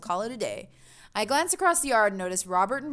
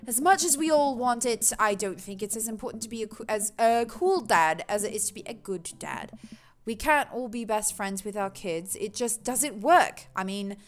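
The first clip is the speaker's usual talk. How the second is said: put-on shaky mix of British and Australian accents. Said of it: "Australian accent is killing my British accent".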